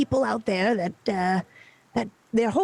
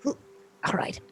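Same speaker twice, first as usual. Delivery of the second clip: whisper; 6 dB quieter than usual. Acted. GM whispers before the reveal.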